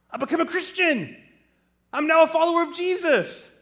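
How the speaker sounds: high, loud, eager son breaking his big news; excited announcement. Acted. Son tells Mom and Dad he became a Christian, excited. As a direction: proclaim it high and fast, bursting with it.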